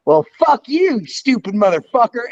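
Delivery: high, mocking curse down the phone; playful phone insult. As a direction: fling a jokey insult at the caller.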